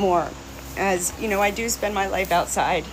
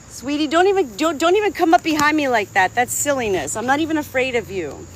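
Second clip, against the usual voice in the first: scolding; 5 semitones higher than usual. Real, not acted. Scolding the rooster.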